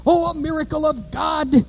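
high, mocking imitation of preachers; mock pious voice. Preacher mocking fundamentalists' claim, in a high mocking voice. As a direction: sneer it like a pious dupe.

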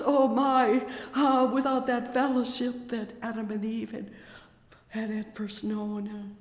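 ordinary talk, nothing marked

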